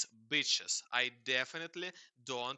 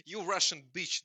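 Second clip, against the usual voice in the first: loud, higher, half-joking insult; mock angry yell; 6 semitones higher, 7 dB louder than usual. Real, not acted. Scolding the chatbot for answering in Russian, loud mock yell. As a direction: shout it out, half laughing.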